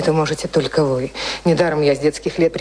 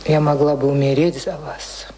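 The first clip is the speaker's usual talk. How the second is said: whispered confession; 4 semitones lower, slower than usual. Acted. Lizzie's confession of devotion.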